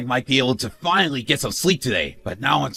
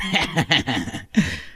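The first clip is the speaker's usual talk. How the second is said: gloating laugh; 2 semitones lower, 3 dB quieter than usual. Acted. Gloats over wife in car.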